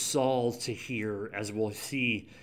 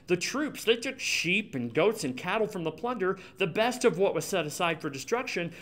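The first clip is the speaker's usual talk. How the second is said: higher, pleading self-justification; defensive Saul; 5 semitones higher than usual. Retold or imitated. Saul defending himself to Samuel, whiny. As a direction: protest your innocence, whiny. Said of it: "Saul answered".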